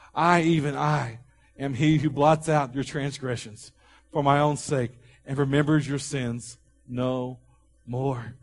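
slow, deliberate scripture reading; measured pulpit reading with weighty pauses. Real, not acted.

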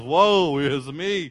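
very slow, mild mock lament; psalm opening voiced as gloomy complaint; woe is me. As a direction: stretch out woe is me like a sigh. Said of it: "Many of his Psalms start out as".

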